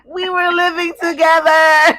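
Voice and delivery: high, loud and slow in disbelief; incredulous. Real, not acted. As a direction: stretch it out, still reeling. Laughing disbelief.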